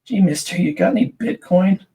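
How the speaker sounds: lightly voiced gee-whiz kid; a hint of an eager old-timey boy; wholesome 1950s kid. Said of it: "starts every sentence with".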